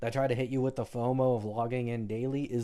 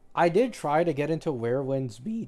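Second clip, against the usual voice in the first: voice cracking and breaking partway through; 3 semitones higher than usual. Complaining about gacha dailies and weeklies, then voice cracking. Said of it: "what a voice crack".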